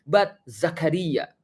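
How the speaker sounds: high, pushy mock correction "Zekri, no, no, it's wrong"; mock correcting. Mocking people who force the spelling: pushy high correction. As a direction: play a fussy corrector insisting on "Zakaria". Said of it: "memaksa orang untuk".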